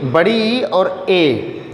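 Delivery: slow demo. Shown as a demonstration. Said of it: "छोटी ई".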